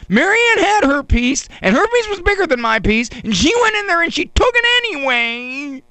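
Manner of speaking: high, pleading whine to mom; whiny complaint. Retold or imitated. A boy tattling to his mother about his cake, whining high. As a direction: tattle like a wounded little boy.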